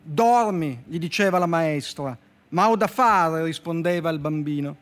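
measured storyteller reading with slow, deliberate endings; dry literary fable reading; story reading. Acted. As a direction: read the fable like a deadpan poet. Poet reads his fable aloud.

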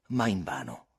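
ordinary talk

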